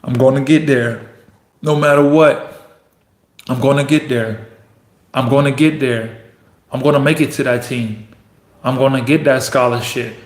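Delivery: low, steady self-affirmation; determined self-talk. Acted. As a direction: repeat it to yourself like a vow, pausing between lines. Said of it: "You gotta keep telling yourself".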